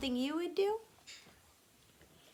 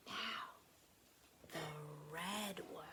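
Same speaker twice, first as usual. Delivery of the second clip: soft whisper, much softer; 6 semitones lower, 15 dB quieter than usual. Acted. Anne whispering to herself while placing the block, soft whisper. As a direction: breathe it so the tower won't fall. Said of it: "Anne whispered".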